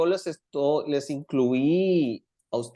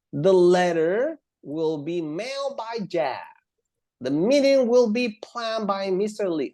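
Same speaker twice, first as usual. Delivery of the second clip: slow, higher-pitched sentence readout; slow example reading; 4 semitones higher, slower than usual. Shown as a demonstration. Teacher reading passive examples to students, slowly. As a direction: read slowly, stretching the words.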